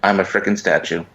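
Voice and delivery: talking while chewing; words round a bite of food; mouth full. Real, not acted. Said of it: "we can hear you eating".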